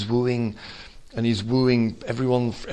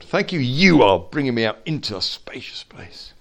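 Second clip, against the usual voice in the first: whispered thanks. Retold or imitated. Believer thanking God in a tight place, whispered. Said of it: "You can just say".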